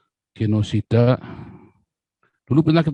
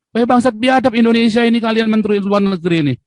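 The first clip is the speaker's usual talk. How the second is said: mock shouted protest; 8 semitones higher than usual. Imagined protester yelling at the foreign minister. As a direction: act out the protest nobody made. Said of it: "Ada nggak Indonesia teriak".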